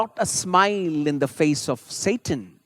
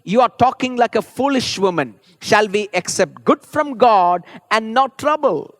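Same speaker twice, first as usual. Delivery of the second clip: Job's firm rebuke; 4 semitones higher, 4 dB louder than usual. Retold or imitated. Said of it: "he replied".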